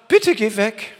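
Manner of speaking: a weak, hesitant plea, not a command; timid pleading. Pretend. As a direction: shrink away from the enemy as you ask. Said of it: "Jesus hat nicht irgendwie gesagt".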